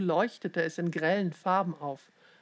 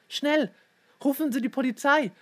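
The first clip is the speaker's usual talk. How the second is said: high, quick, pressing demand; urgent pleading; 7 semitones higher, 4 dB louder than usual. A narrator's reading. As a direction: press them to act at once. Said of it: "drängte Leon".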